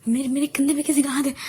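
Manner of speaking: alarmed shout of fear; scared cry. Acted. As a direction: blurt it out in rising panic. Girl terrified in dark after movie.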